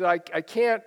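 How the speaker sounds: ordinary delivery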